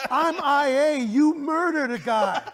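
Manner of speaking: high, drawn-out retold disbelief; confounded. Co-star baffled that fans hate his character, confounded. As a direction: protest in baffled, laughing imitation. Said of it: "he was just confounded".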